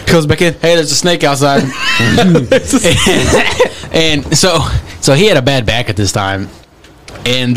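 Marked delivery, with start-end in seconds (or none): 0.5-1.6 retold shout. Retold kid calling dad. 1.7-3.9 big laugh bursting out. Real, not acted. Laughing at own story.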